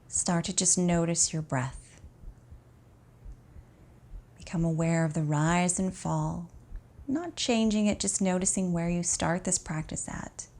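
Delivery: calm, unhurried meditation voice with long pauses; guided relaxation. Acted. Teacher guiding an exhausted student to notice the breath, calm guided relaxation. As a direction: ease the listener gently into rest.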